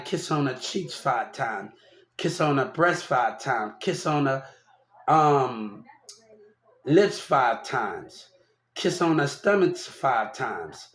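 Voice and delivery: slow and hushed, each kiss savored; soft tender listing. Retold or imitated. Tender list of kisses.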